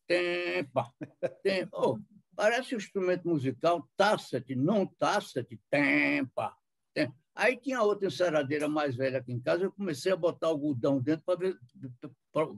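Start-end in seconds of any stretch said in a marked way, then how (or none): 0.1-6.5 mock floor polisher noise, sputtering syllables; imitated machine sputter. Telling the host how the polisher sounded, a light sputtering imitation.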